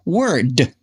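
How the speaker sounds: "word" with its final d clearly sounded; full ending. Shown as a demonstration. Teacher modelling a word for learners, clear final d in "word". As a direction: finish "word" on an audible d. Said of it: "make sure we pronounced every word".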